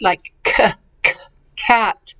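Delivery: hard "k" sound, isolated, then "cat". Shown as a demonstration. Teacher showing students the hard C, hard k sound. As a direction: say "k" crisply apart, then "cat". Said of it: "It can be hard".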